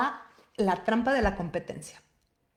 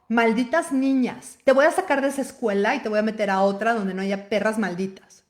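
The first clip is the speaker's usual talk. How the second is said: louder, a hint of furious mother; mock rant against the mean girls; outraged mom; 5 dB louder than usual. Mother fuming at the girls who snubbed her daughter. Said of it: "tener la razón como mamá".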